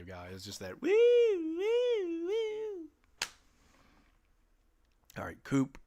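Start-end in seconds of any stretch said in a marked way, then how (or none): 0.9-2.9 squeaky high-pitched woo of exasperation; high falsetto woo. Real, not acted. Gamer exasperated at his team, falsetto woo. Frustrated exclamation mid-game.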